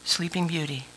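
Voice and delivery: quietly cue the congregation to heads down; hushed cue. Shown as a demonstration. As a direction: say it gently so the room goes silent. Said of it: "Are you ready?".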